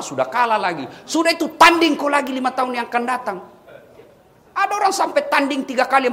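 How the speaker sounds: loud, driving sermon voice; fiery preaching. Acted. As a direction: hammer the point home to the crowd. Preaching at full force. (ceramah berapi-api dan lantang)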